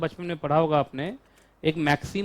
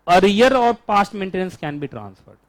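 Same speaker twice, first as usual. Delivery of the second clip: very slow, every word spaced for writing; dictation pace; 4 dB louder, much slower than usual. Shown as a demonstration. Teacher dictating the rule to students, very slowly. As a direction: dictate it slowly so the class can copy. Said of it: "लिखो।".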